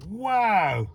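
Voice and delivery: high, loud wow; excited wow. Real, not acted. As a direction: genuine wonder. Sees bright reverse lights.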